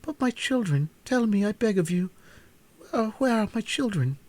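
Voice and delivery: high, pleading queen voice; anxious entreaty. Acted. Mother Queen anxiously begs the hen about her children. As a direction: beg for news of her children. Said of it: "clasped her hands in anxious entreaty".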